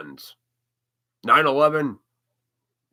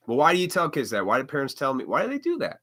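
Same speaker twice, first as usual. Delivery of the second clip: usual speaking voice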